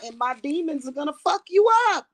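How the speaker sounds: angry shout. Real, not acted. Angry rant at haters.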